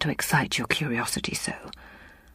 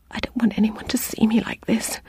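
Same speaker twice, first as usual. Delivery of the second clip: ashamed; 6 semitones higher than usual. A narrator's reading. Ashamed patient hides.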